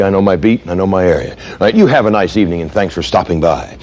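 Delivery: friendly helpful cop. Retold or imitated. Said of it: "he looks up smiling".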